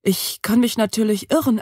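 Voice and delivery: ordinary delivery, nothing marked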